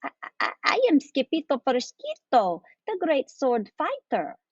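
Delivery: breathy stutter into high proclamation; stammer, then announce yourself grandly; stammering boast. A narrator's reading. Gatito introduces himself to fox, stammering boast.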